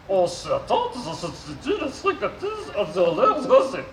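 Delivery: robot voice with garbled consonants. Acted. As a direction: mangle the consonants like a glitchy robot. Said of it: "souffre d'une pathologie vocale".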